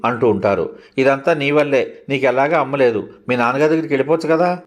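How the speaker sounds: hurt, indignant outburst; resentful son. Acted. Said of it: "అనేశాడు ఒకరోజు నా కొడుకు రోషంగా".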